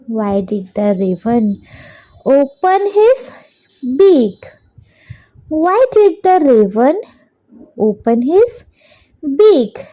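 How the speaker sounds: very slow, word by word for copying down; slow dictation. Shown as a demonstration. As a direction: dictate it so children can write along. Teacher dictates question slowly.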